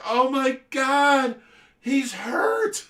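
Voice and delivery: high, loud, drawn-out mock wail; distressed little kid. Kid seeing the hurt raccoon, mock dismay. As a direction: wail it slowly like an upset child.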